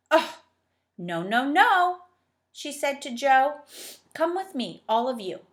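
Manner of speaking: put-on high, loud bossy old dame; stern old schoolmistress. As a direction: talk down to the children as the headmistress. Dame Slap refuses Joe.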